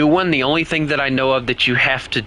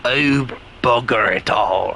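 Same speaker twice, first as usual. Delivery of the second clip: mock British accent. Still playing the British accent.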